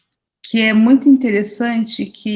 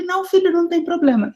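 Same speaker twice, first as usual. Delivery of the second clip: put-on higher, gentle reassurance to a crying child; reassuring mother; 6 semitones higher than usual. Mother reassuring crying son, higher and gentle. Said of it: "eu falei pra ele".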